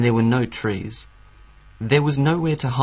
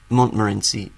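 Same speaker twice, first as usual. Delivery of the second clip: ordinary delivery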